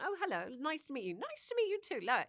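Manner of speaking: high, fast hammed-up fake politeness; mock the fake first-date sweetness; mock phony first meeting. Actor mocking co-stars who just met, hammed-up sweet voice. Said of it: "You know that they've gone".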